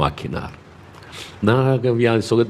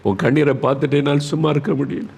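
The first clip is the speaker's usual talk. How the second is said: higher-pitched, pleading sermon voice; fervent, compassionate preacher; impassioned preaching; 6 semitones higher than usual. Acted. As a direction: plead with feeling as God moved by tears. Preaches God's compassion for Hezekiah.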